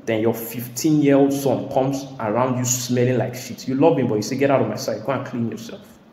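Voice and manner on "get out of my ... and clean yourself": parent rising to a furious shout, much higher and louder; angry parent yelling. Retold or imitated. Father yelling at his grown son to go wash. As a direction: yell it like a fed-up father.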